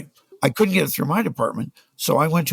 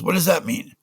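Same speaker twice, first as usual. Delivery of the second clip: mock Afrikaner; 6 semitones higher than usual. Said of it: "this exact dialect".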